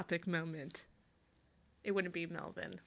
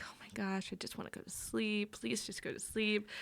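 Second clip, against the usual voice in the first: soft, exhausted mumbling plea; a worn-out mom begging quietly; tired whispering mom; 5 dB quieter than usual. Retold or imitated. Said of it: "She's like".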